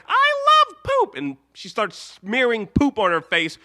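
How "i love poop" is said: very high, louder and slow, adoring; Ruby gushing with cartoon delight; squeaky Ruby voice. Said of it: "Ruby's like".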